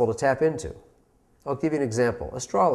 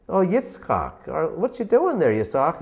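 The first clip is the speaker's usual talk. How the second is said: mocking teacher; 5 semitones higher than usual. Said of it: "She's making fun of him".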